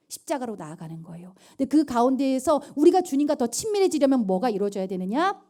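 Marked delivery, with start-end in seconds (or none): 0.1-1.3 soft whisper on 십자가로; hushed, intimate whisper. Acted. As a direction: draw them close with a whisper. Whispered repeat, even softer.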